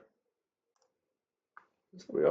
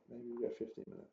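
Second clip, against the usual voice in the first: much softer, half to yourself; quiet hopeful repeat; 16 dB quieter than usual. Real, not acted. Trader repeats the wish to himself, much softer. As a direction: murmur it again under your breath, hoping. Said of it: "repeated softer".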